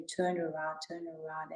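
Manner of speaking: a soft nudge from within; gentle inner voice. Retold or imitated. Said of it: "the Holy Spirit told me".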